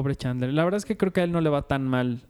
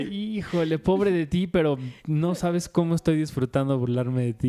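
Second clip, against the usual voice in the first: fake pity. Host imitating Monica's glee at another's misfortune, mock pity. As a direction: pretend to pity while enjoying it. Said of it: "la maldad de Mónica".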